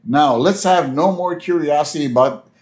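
lightly voiced school principal; a touch of stiff official address; measured, mildly acted lecture to pupils; Principal Skinner. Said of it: "Principal Skinner walks up".

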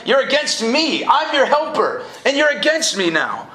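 God reaching out, hurt and urgent; pleading God. Acted. God pleading with Israel who turned away. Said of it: "He's like".

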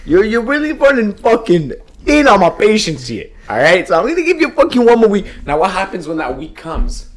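high, loud threatening enforcer; threatening mob boss. Pretend. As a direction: lean on him hard. Mafia boss threatening Vinny.

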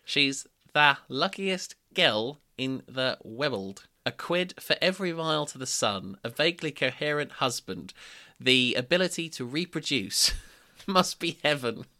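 slow read, holding back laughter; stifled giggles, slow. Real, not acted. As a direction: read it slowly, barely not laughing. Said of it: "I'll say that again".

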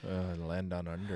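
put-on a terrible, half-hearted Australian accent; lightly attempted Australian accent; bad Australian accent. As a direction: toss off a weak Australian accent. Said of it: "That was not a good Australian accent".

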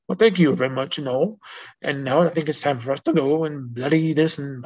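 attempted British accent, hammed lightly; badly faked British accent. Shown as a demonstration. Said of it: "In a British accent again".

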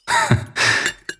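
bardzo wysoki, bezdźwięczny, złośliwy chichot; szyderczy rechot. Acted. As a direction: zachichocz wysoko i drwiąco. Złośliwy śmiech księdza. (szyderczy śmiech)

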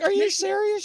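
high, incredulous question; retold disbelief. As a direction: question it in storyteller's mock shock. Retold disbelieving reply to warning.

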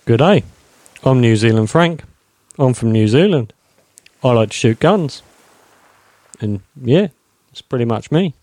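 put-on lightly done Kiwi accent; a hint of New Zealand vowels. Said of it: "your only defining feature is an accent".

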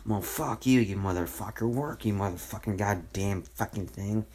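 half-acted swearing at a broken machine; imitating his younger self cussing out a computer; retold angry cussing. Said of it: "call every fucking name under the sun".

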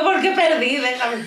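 hammed-up tearful whine; whiny sobbing. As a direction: wail it like a sore loser. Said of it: "Y yo".

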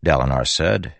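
ordinary delivery, nothing marked

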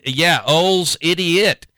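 put-on slow light Irish accent. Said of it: "which in Irish is eighty-eight".

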